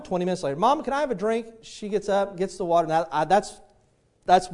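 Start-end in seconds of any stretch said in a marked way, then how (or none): 0.5-1.4 higher-pitched imitation of a little girl; crying out. Little girl calls mama twenty minutes later, mock high plea. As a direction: lightly play a child calling for a drink. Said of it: "the little girl cries out".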